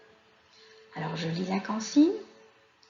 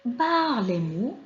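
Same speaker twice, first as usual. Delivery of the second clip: slow, measured reading of a school instruction; slower than usual. Shown as a demonstration. Teacher reading the last exercise's instruction to children, slow instruction read-out. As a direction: read it out slowly for young pupils to follow. Je lis la consigne.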